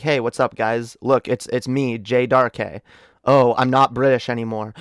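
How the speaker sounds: low-key greeting in American accent. Shown as a demonstration. Streamer showing how the reveal could have sounded, American accent. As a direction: introduce yourself casually in an American accent. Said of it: "I could have been like".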